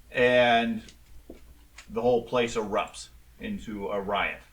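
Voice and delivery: measured narration with suspenseful pauses; game master's scene setting. Acted. Game master reveals the rat-headed body to players, measured scene setting. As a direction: unfold the scene phrase by phrase.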